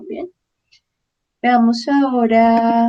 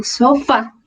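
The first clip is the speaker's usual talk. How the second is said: sofá with the stress landing on the last syllable, FÁ; teacher approving the answer, stressing the last syllable; final-syllable stress. Shown as a demonstration. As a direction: slowly confirm sofá, stressing the end. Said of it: "es con tilde en la última".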